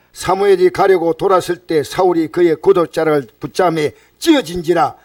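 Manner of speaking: solemn, even pulpit reading of scripture. Acted. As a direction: read the passage out to the congregation. Reads scripture aloud.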